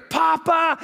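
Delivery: imitated excited child's cry; excited grandchild greeting. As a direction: call out like a delighted little kid. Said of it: "first words you're gonna hear".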